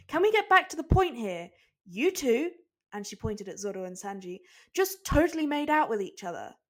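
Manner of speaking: loud, high exasperated scold. Acted. Nami scolding Zoro and Sanji, exasperated. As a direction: demand they face it.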